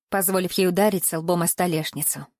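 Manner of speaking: ordinary delivery, nothing marked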